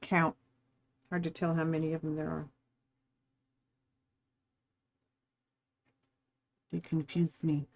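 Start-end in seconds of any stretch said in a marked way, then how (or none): 1.1-7.7 lollipop. Real, not acted. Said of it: "my cinnamon lollipop in my hand there".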